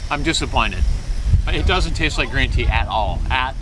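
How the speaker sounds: talking between sips; just after a sip. Real, not acted. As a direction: mouth wet from drink. Seen 3: He drinks at -3 s and speaks holding the can until the next sip.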